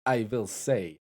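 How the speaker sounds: blurting "Da" like a Russian on request; Russian accent. Pretend. Answering the donor's request with a loud Russian "Da". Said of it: "in a Russian accent".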